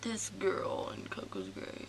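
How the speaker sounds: hushed unvoiced whisper. Real, not acted. Friend whispering gossip about a girl, hushed whisper. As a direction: whisper it so no one hears.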